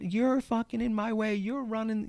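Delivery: high, slow, yelled rant at the handyman; hammed-up crazy yelling, high and drawn out; screaming rant. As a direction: scream it out like you've lost it. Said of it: "even louder than before".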